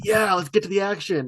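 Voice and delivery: eager fan. Retold or imitated. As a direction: imitate someone keen for the action. Voicing eager action fans.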